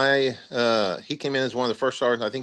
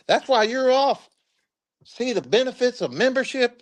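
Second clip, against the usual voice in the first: imitating the first sergeant; 12 semitones higher than usual. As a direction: savor the punchline like a sales pitch. First sergeant voiced in story.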